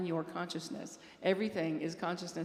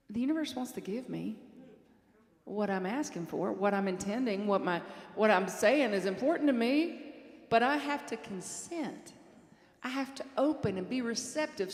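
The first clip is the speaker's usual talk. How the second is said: imitated Southern accent with lilting stresses; 3 semitones higher, 3 dB louder than usual. Quoting a prayer partner on consenting, Southern accent. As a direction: quote a friend in his Southern accent. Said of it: "in his beautiful Southern accent".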